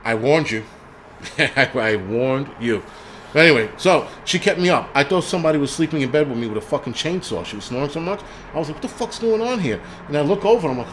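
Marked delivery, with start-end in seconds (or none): 1.4-2.8 "warned you" stretched out at half speed; drawn-out warning. Real, not acted. Streamer teasingly warns a scolding commenter, slow and drawn-out. Repeats warning slowly after laughing. 8.8-9.8 high-pitched mock bewilderment; retold bewilderment. Husband retells waking to chainsaw snoring, mock bewildered.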